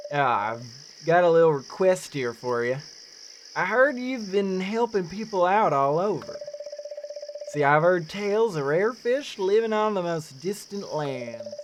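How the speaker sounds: lightly attempted Newfoundland accent; game character's mild Newfoundland lilt. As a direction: greet a visitor with a touch of Newfie brogue. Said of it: "the accent that I should be going for".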